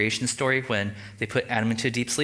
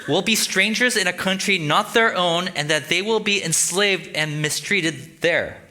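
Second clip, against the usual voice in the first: raised, slow, emphatic reading; scripture reading; 5 semitones higher, slower than usual. Acted. God tells Abram the terms of the contract, emphatic reading. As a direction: proclaim the verse deliberately, pitched up.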